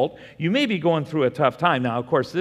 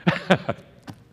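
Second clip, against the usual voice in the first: Or fear with a laugh, louder and higher; playful laugh; 4 semitones higher, 5 dB louder than usual. Shown as a demonstration. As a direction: tease your neighbour, laughing. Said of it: "And you turn back and say".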